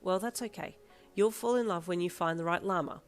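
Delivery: deadpan. Acted. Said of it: "in a deadpan voice".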